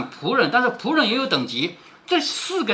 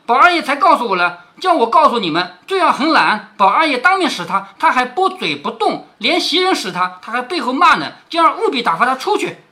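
louder, higher stern command; stern order; 4 semitones higher, 4 dB louder than usual. Acted. Qingwen ordering Mrs Song to dismiss Zhui'er, stern. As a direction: lay down the order firmly. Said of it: "叫宋妈妈进来".

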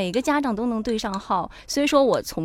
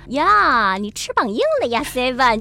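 nagging parent; 3 semitones higher, slower than usual. Retold or imitated. Imitating the older generation scolding a grown child, lightly mocking. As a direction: toss it off like a parent complaining that their grown kid has talked back. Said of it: "用老话来说就是".

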